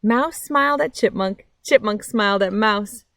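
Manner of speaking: lively picture-book reading with big pauses; reading to children. A narrator's reading. Reading a picture book to kids on a nature channel, lively storytime voice. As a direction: read it like storytime for little ones.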